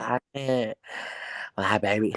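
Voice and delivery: voice like a man's, very slow and drawn out. Retelling a friend's words to a listener, imitating a man-like voice. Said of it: "she sounded like a man too".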